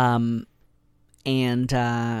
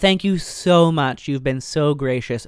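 fake polite brush-off; 4 dB louder than usual. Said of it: "And she's like".

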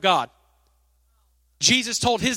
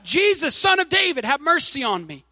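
high mock cry for mercy, pitch raised; retold shout; 5 semitones higher than usual. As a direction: call out to Jesus like a pleading beggar. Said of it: "he began to shout".

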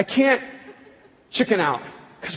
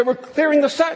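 crew call; 7 semitones higher than usual. Retold or imitated. Crew calling out.

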